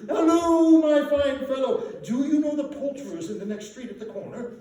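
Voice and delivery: loud, laughing, high-pitched delight; giddy excited calling. Acted. Scrooge calling down to the boy from his window, giddy and laughing. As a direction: burst with giddy joy, laughing as you call.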